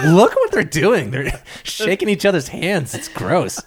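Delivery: slowed, appalled commentary; slow mock disgust. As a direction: point out the gross habit slowly. Dogs disgusted by handshakes.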